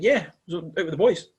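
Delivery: put-on jokey Australian lad accent; an Aussie bloke impression. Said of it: "Don't know why he's Australian now".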